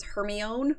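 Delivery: Hermione said as "her-my-own"; mispronounced Hermione. Retold or imitated. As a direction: read Hermione as it looks, ending in "own". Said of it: "that he would pronounce".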